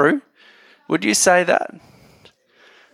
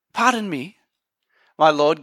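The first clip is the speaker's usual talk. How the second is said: very polite. Retold or imitated. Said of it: "Gideon's response is very polite".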